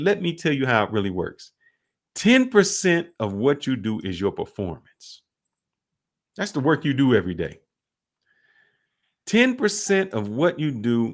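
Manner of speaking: plain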